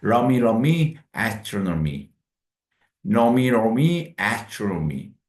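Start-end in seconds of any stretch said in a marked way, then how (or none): 0.0-1.0 러미 repeated, louder; syllable drill. Shown as a demonstration. Teacher isolating 러미 for students. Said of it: "두 번째 강세가 있죠?". 3.0-4.1 노미 repeated slowly and louder; slow syllable drill. Shown as a demonstration. Teacher drilling 노미 slowly. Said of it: "두 번째 강세가 있죠?".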